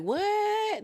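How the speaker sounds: high stunned what; shocked what. Retold or imitated. Cast hearing the payment reveal, stunned high what. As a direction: squeal the question in shock.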